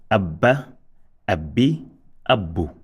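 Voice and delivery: doubled b held in "abba, abbi, abbu"; emphasized sound. Shown as a demonstration. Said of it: "Emphasized sound".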